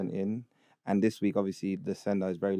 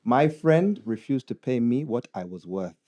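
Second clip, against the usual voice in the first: put-on Ugandan accent. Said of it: "read it in a Ugandan accent".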